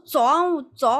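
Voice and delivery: imitating a friend's excited coaxing; eager urging. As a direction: hurry her along, all fired up.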